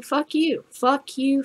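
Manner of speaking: defiant fuck you. Real, not acted. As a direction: toss it off high and scornful. Ranting defiance at prohibitionists.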